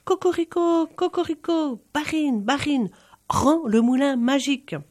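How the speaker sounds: high rooster cry, insistent; high cockerel shout demanding the mill. A narrator's reading. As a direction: crow it again, pushing harder. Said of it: "crier encore plus fort".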